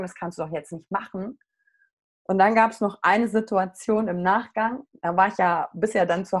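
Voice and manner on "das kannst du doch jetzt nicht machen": "das kannst du doch jetzt nicht machen" dropped much softer, almost under her breath; quiet self-doubting murmur; fading inner voice. Retold or imitated. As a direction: let the self-doubt trail off softly. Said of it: "mit mir im Kopf verhandelt habe".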